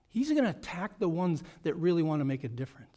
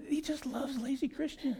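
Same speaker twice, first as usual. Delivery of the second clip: mock Satan; 7 semitones higher, 7 dB quieter than usual.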